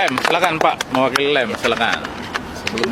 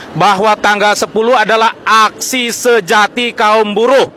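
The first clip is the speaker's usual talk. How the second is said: rally speech. Real, not acted. Host rallying crowd.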